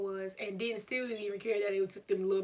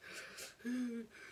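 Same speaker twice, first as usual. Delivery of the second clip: quiet sniffle; 2 semitones higher, 9 dB quieter than usual. Retold or imitated. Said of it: "I was just like".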